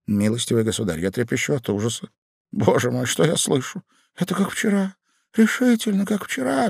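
high, rising alarm; horrified Ivan. A narrator's reading. Ivan under the bed hearing of his wife, horrified. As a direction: voice climbing in dread.

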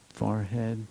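soft, unhurried body-scan cue; gently name the forehead as you scan; little meditator's voice. Shown as a demonstration. Teacher demoing a kindly body scan, soft meditator's voice. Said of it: "you can use a little voice".

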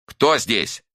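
calls out loudly into the dark flat; a loud, wary "who's there". A narrator's reading. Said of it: "и спросила очень громко".

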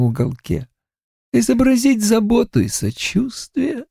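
smug, unhurried killer; calm creepy killer. A narrator's reading. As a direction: savour each word like a predator. Killer Creed speaks.

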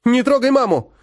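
put-on high, loud cry of a boy shielding his mother; boy shouts at the stranger threatening his mother; desperate shout. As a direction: yell it to protect her.

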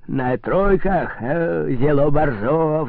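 slow, drawn-out merry exclaim; merry cry. Acted. Tipsy priest calling for troikas, slow merry exclaim. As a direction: stretch the words like a tipsy priest. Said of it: "вскрикнул веселый отец Ипат".

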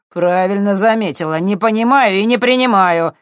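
menacing boast. A narrator's reading. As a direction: lean in on her. Thug threatens girl. (угрожающе, громко)

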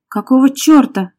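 high, loud, slow cry; startled shout. A narrator's reading. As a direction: cry out in outraged protest. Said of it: "закричала она".

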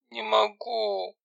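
high, slow, tearful moan; slow, high, near-crying refusal. Acted. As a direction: drag it out on the edge of tears. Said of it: "со слезами на глазах".

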